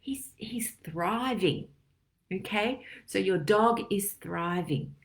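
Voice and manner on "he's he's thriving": awed whisper. Retold or imitated. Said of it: "And you think".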